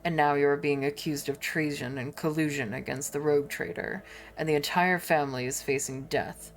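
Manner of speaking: a low, stern noble reproaching a subordinate; stern lord Abelard. Acted. Lord Abelard rebuking Clementia, low and stern.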